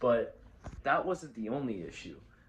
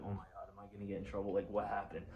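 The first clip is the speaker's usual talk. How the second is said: scared; 3 semitones lower, 5 dB quieter, much faster than usual. Retold or imitated. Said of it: "I was, like, so scared".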